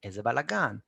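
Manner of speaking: "איזה בלגן" joined as one word; words run together. Shown as a demonstration. Teacher showing learners how to link "איזה בלגן", words run together. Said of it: "Connect word as if it was one word".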